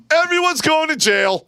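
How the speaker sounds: loud, very high outburst; alarmed yell. Retold or imitated. Sergeant warning his soldiers of jail, high alarmed yell.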